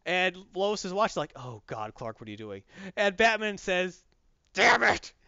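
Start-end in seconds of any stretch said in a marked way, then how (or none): 1.3-2.6 low, soft worried aside; quiet dismay. Retold or imitated. Lois watching Clark on TV, hushed and dismayed. 4.5-5.1 loud, raised curse; acted exasperation. Batman cursing as Superman fights, loud and exasperated.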